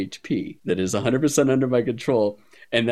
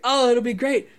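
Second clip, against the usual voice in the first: high, sing-song ditzy innocence; ditzy act; 13 semitones higher than usual. Retold or imitated. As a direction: play the airhead to bait the DM. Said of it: "acting super ditzy".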